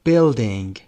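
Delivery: teacher modelling the word; model word for class. Shown as a demonstration. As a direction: clear slow model of Building.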